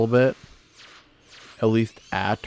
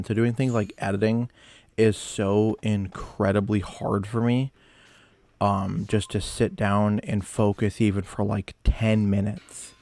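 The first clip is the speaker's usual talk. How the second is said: talking while chewing gum. Real, not acted. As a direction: gum in the mouth. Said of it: "I got gum in my mouth".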